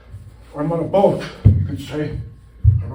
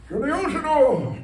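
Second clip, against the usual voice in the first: sudden high squeak; 13 semitones higher than usual. Pretend. Pretend floating at sea.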